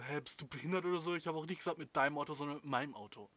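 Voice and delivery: mock the careless boyfriend; rude boyfriend. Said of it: "Und der sagt dann so".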